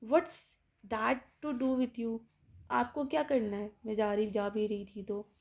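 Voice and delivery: annoyed. Retold or imitated. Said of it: "annoyed हो कहती है".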